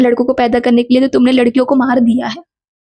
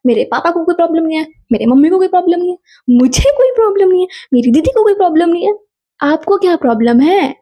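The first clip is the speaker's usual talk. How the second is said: rising higher and quicker with each line; firm comeback; 4 semitones higher, faster than usual. Retold or imitated. Standing up to the aunt, building higher and faster. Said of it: "मैंने बहुत normal tone में बोला".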